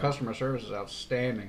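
dry sarcastic praise. Real, not acted. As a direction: say it deadpan, meaning the opposite. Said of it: "You hear the sarcasm".

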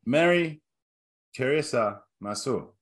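half-hearted fake Japanese accent; bad Japanese accent. Host repeating the guess-the-country greeting in a fake Japanese accent. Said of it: "worst Japanese accent you have ever attempted".

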